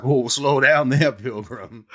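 slow, folksy cowboy drawl; old prospector. Pretend. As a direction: rein her in like an old prospector. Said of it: "And he's like".

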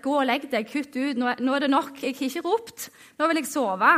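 put-on mildly annoyed old priest; irritated. Eli sending Samuel back to bed, mildly irritated. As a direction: act out mild, impatient irritation. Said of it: "kanskje han blir irritert".

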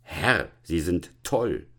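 slow, emphatic acted indignation; mildly outraged, spacing the words; angry verdict. Deputy headmaster answering the student, slowly indignant. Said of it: "schrie der Konrektor voller Zorn".

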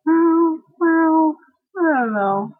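high, bright-eyed brush-off; mock cheery shrug-off; upbeat optimist. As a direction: chirp it up like the positive one. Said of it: "I'm like".

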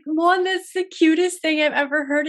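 high, loud, choked-up gushing; retelling bawling at something so sweet; teary gush. Retold or imitated. Telling of crying over her partner's duck wish, high and teary. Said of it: "I started bawling".

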